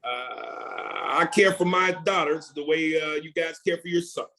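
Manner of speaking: a hint of Obama's measured cadence; lightly voiced presidential speech rhythm, pausing between phrases; Obama impression. Shown as a demonstration. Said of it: "I know it's cadence".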